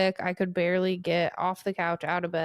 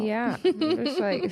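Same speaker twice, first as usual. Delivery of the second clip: crying; 3 semitones higher than usual. Real, not acted. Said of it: "sorry, I'm crying".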